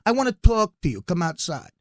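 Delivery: lightly voiced mob boss beckoning; Godfather voice. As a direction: call him over like a mob boss. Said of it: "almost like the Godfather".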